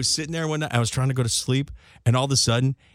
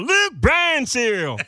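higher, louder, slow, laughing through it; laughing mock ad voice; 9 semitones higher, 3 dB louder, much slower than usual. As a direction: sell cereal while cracking up. Mock cereal ad.

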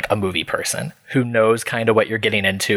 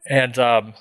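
talking through a yawn; words pushed out mid-yawn. Real, not acted. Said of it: "I had a little yawn".

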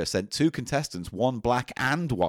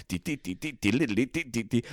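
imitated time machine. Mimics time machine, gives up.

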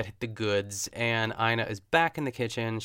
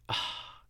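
breathy swooning "ah"; soft voiceless melting sigh; disarmed sigh; 7 dB quieter than usual. Retold or imitated. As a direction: sigh it out, utterly charmed. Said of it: "completely disarmed me. I was like".

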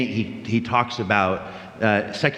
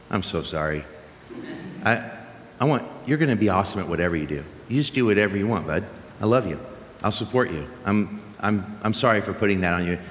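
tender apology; 3 semitones lower, 4 dB quieter, faster than usual. Retold or imitated. Father apologizing tenderly to son.

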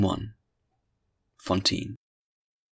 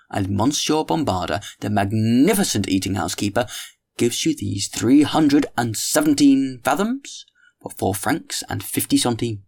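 Tolomyes holding forth; 3 semitones higher than usual. Acted. Tolomyes lecturing the ladies at dinner, lightly voiced mock-grand oration. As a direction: hold court over the table, mock-grand.

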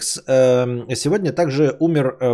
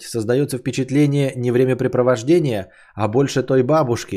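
ordinary talk

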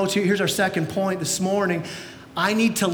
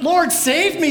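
loud, higher hammed-up yell; yelled plea; 6 semitones higher, 4 dB louder, slower than usual. Peter's panicked prayer retold as a mock yell. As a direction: shout the prayer in a panic, mockingly. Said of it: "Jesus yelled at him".

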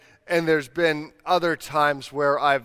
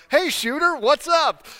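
much higher, breezy impression of a chummy guy; casual guy greeting; 12 semitones higher, 4 dB louder than usual. Pastor imitates the naked man greeting him, high and breezy. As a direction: toss it off like an overfriendly stranger. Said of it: "and he's like".

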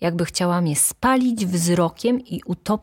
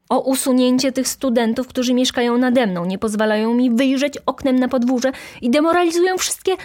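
high, loud indignant tirade; scandalized baroness, raised pitch; outraged complaint; 8 semitones higher, 5 dB louder than usual. A narrator's reading. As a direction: rail against them in outrage. Outraged baroness demands students' removal.

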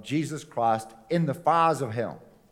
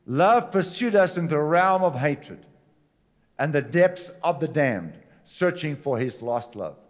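impassioned preaching, fading. Acted. Preaching about love pursuing us.

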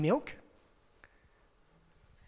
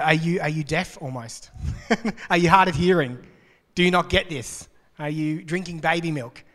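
mock frustration. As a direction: play the fed-up writer scolding lightly. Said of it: "he gets a bit frustrated".

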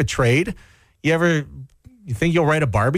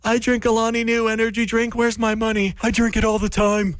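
Kim Kardashian; 9 semitones higher than usual. Retold or imitated. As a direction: coo it like an influencer. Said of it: "Kim Kardashian has this on her feed saying".

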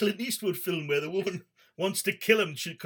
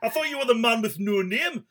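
louder, raised-pitch Geordie jeering; mocking Geordie bloke; 3 semitones higher, 5 dB louder than usual. Geordie bloke imagined ribbing Clint, mock exasperated. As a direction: play an exasperated Geordie taunting his pal. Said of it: "if it was a Geordie bloke".

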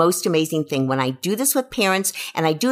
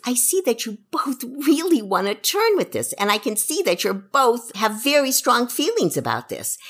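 calm reassuring; 5 semitones higher than usual. Shown as a demonstration. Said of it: "if you can just say those words".

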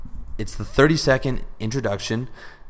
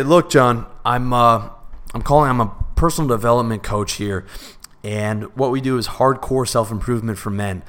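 conversational sales pitch. Shown as a demonstration. Coach demonstrating a phone pitch to a prospect, conversational and confident. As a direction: sell it like a real person, not a script. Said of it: "that's how it would sound".

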